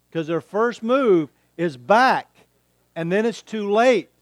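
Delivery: emphatic preaching. Real, not acted. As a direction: hammer the point home to the congregation. Preacher drives home the point.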